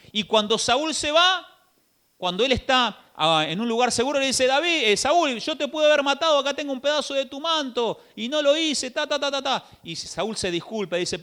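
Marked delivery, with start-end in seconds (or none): 4.5-9.6 raised, pointed reproach; David confronting Saul. Acted. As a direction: hold up the proof, a touch higher. (David reprochando a Saúl, un poco más agudo)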